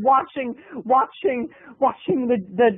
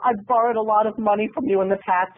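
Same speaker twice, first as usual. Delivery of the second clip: pleading aunt; 2 semitones higher than usual. Retold or imitated. Aunt promises her sister she'll watch the house. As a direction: sell the promise, a bit too sincerely. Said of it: "Aunt Jane came ... and said".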